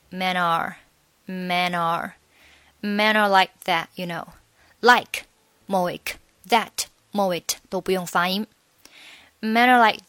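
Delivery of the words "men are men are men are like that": "men are" run together as one word, slow; linked men are. Shown as a demonstration. Teacher slowly linking "men are" for students. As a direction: join "men" straight into "are". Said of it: "这里men are连读".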